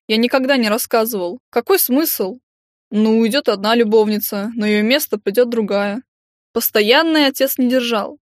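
lightly voiced resentful boy; a hint of a sulky kid. Boy character's voice.

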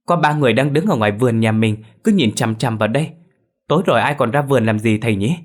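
loud and hurried, tumbling out; rushed words. Acted. Son telling father about figures in the garden, fast and loud. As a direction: blurt it out as if someone will steal the words. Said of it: "nói như sợ ai cướp mất lời".

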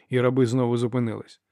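ordinary delivery, nothing marked

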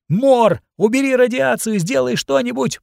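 put-on high, pleading girl's cry for help; panicked scream. A narrator's reading. Burned girl begs Mor for help, high panicked cry. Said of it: "прокричала лавина".

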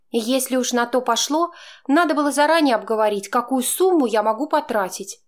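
Chaika, heating up in a quarrel; getting heated. A narrator's reading. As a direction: work yourself up as she argues. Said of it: "начала она горячиться".

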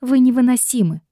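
high annoyed grumble; grumbling. A narrator's reading. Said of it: "проворчала я".

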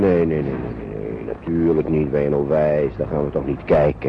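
father firmly forbidding a look at the wreck; firm refusal. Acted. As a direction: shut the children's request down hard.

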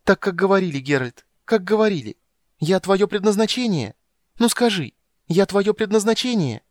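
put-on high, loud child voice bursting with joy; a girl who always knew he'd come; overjoyed little girl. Girl to the witcher who found her, high joyful child voice.

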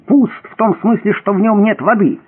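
запальчивое уточнение, заметно выше; поясняй с жаром, повысив голос; горячась. A narrator's reading. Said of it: "горячась пояснил Рувим". (горячо, с нажимом)

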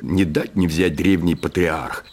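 plain reading voice

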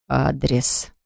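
low, soft, hoarse single word. A narrator's reading. Husband demanding the address again, low and hoarse. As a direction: rasp the word out quietly. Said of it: "повторил хриплым голосом".

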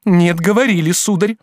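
don't let him deny it; indignant girl; flat contradiction. A narrator's reading.

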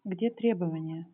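to someone hard of hearing. Real, not acted. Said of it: "Погромче, пожалуйста, говорите, почётче".

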